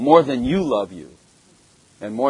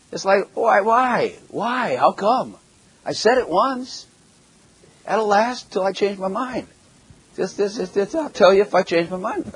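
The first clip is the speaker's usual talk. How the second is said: mock whiny protest; 7 semitones higher than usual. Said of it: "retorting to his wife".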